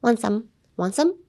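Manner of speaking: "Want some" said fast as one word; "Want some" quick and joined, T barely there; run-together words. Shown as a demonstration. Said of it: "Just say it really fast".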